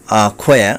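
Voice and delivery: অ্যাকোয়া said "a-khoya", no final r; dropped r. Shown as a demonstration. Teacher offering an alternative, অ্যাকোয়া without r. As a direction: say অ্যাকোয়া leaving off the last r. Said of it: "যদি র বাদ দেওয়া হয়".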